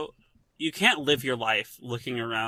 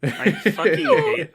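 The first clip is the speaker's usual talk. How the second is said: squealing laugh; 4 dB louder, slower than usual. Real, not acted. Cracking up at the joke.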